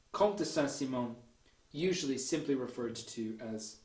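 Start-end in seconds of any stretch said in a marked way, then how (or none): 0.1-1.1 Comte de Saint-Simon with nasal French vowels, Saint-Simon as sæ-sĩ-mõ; French pronunciation of Comte de Saint-Simon; French accent. Shown as a demonstration. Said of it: "forgive my French accent".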